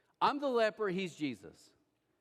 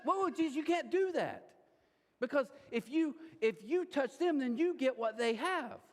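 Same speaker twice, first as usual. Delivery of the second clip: higher, startled and urgent; alarmed objection; 6 semitones higher than usual. Pretend. Crowd member objecting as Jesus touches the leper, alarmed. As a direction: stop him in shock.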